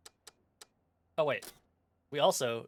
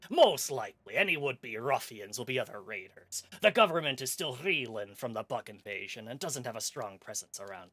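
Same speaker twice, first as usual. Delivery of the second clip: pirate voice. Acted. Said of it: "the pirate voice that they want me to do".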